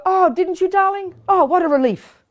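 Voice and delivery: high, sweetly gushing pretend relief; hammed-up high-pitched "oh, darling" relief; mock relief. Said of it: "you'd think I'd go".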